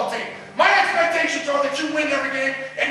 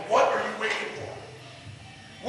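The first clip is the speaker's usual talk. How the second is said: breathy near-whisper, much softer, pulled down low; hushed whisper; 5 semitones lower, 9 dB quieter, much slower than usual. Real, not acted. Coach quietly presses his players in a whisper. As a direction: drop to a whisper to draw them in. Coach pleads with team to commit.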